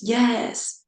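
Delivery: a hint of a voice from the heavens; booming voice. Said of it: "It's like a booming voice".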